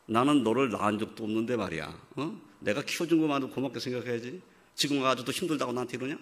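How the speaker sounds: a hint of a grudging father, quickening at the end; lightly voiced bitter father; resentful father. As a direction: complain like an ungrateful-feeling dad. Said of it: "이러겠냐".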